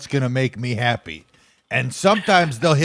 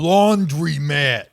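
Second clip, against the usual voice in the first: put-on thick New York accent; much slower than usual. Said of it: "I'd go".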